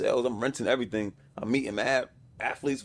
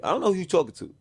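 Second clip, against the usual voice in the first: higher-pitched retold protest; retold arguing; 6 semitones higher than usual. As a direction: argue back, pitched up and faltering. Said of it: "I kept arguing with them".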